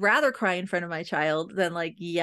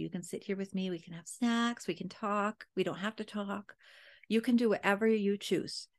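calm soothing. Retold or imitated. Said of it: "I did a good job maintaining my chill".

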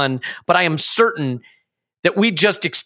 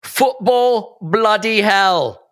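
slow drawn-out quote; 3 semitones higher, much slower than usual. Retold or imitated. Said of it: "I think is what they say".

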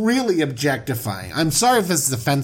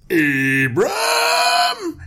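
shout. Pretend. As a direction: yell for him across the palace. Pharaoh calling out angrily.

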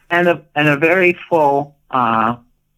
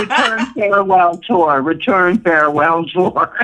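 higher voice, laughing through the words; amused, laughing mock announcement; laughing self-mockery; 5 semitones higher than usual. Real, not acted. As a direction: joke about yourself with laughter bubbling in. Jokes about her repeated comebacks.

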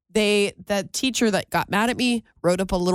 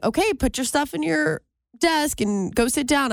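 teacher's instructions, pitched up; 7 semitones higher than usual. Retold or imitated. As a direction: voice the teacher telling the class to sit. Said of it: "as she's saying".

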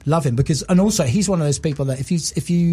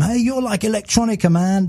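higher, teasing hipster voice; lightly playing a trendy critic; a hint of a smug music journalist; mock hip journalist; 7 semitones higher than usual. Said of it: "try and sort of say to them".

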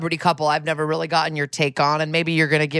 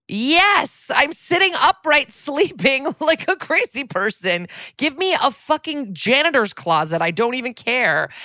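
much higher, eager exasperated plea; desperate yes; 9 semitones higher than usual. Retold or imitated. Tired guest begs the clerk, much higher and eager. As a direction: beg for any room at all. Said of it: "And I go".

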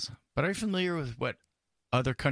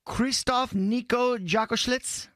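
hammed-up quiz reading; 9 semitones higher, 3 dB louder, slower than usual. Reading silly options as quiz.

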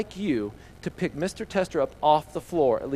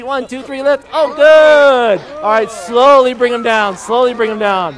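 lifting together; 6 semitones higher, 13 dB louder, slower than usual. Real, not acted. Group lift on the count.

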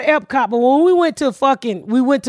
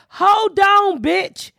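angry call; 8 semitones higher than usual. Retold or imitated. Calling the airport man, a high angry telling-off. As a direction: tell him off down the phone. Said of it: "So I called him and I said".

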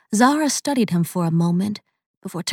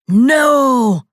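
loud, high defiant snap; spat defiantly; 5 semitones higher, 7 dB louder than usual. A narrator's reading. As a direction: spit the refusal back. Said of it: "the demon spat back, laughing in glee".

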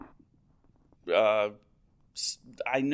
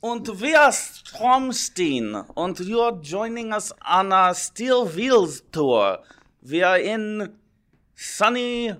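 hammed-up German accent, higher and louder, slow at first; 8 semitones higher, 10 dB louder, slower than usual. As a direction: play a cartoonish German tour guide with a German accent. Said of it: "It's my German accent".

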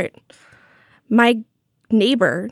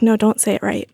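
imitating a gently correcting editor; lightly voiced, discreet correction; gentle correction. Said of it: "gently correct his pronunciation".

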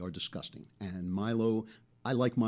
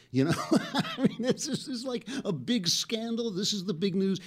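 higher voice, laughing through the words; 10 semitones higher than usual. Real, not acted. Host mocking the Melania speech scandal, laughing. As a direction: chuckle at how silly it is.

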